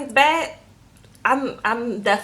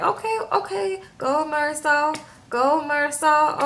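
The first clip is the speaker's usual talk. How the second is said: mock cheering; 3 semitones higher, 3 dB quieter, slower than usual. Cheering him on as he dances.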